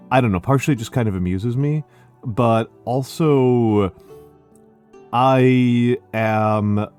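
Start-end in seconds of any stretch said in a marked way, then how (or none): 5.1-6.9 smooth, slow teacher voice; measured classroom delivery for the stream; public speaker voice. Real, not acted. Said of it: "I am putting on teacher voice".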